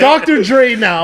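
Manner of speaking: laughing. Real, not acted.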